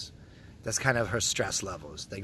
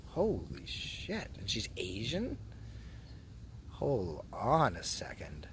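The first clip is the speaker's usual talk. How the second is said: hushed, slow whisper so nobody hears; 3 semitones lower, 8 dB quieter, slower than usual. Real, not acted. Vlogger hushing his viewers while eyeing a woman, whispered. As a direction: drop to a secret whisper.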